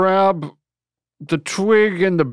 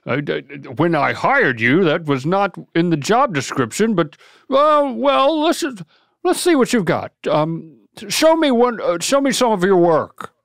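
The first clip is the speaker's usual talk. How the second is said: lightly voiced jolly boss; a hint of Santa. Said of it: "I'll be Santa".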